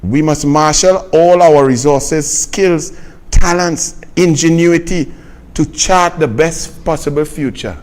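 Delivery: slow, deliberate reading of "marshal all our resources"; slowed-down, pointed re-reading of the quote; read slowly. Shown as a demonstration. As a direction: spell it out slowly, word by word. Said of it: "Let me read that slowly".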